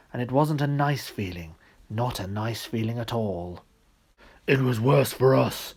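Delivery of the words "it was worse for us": a louder, lightly voiced bear; gruff bear. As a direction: complain like a weary old bear. The bear speaks.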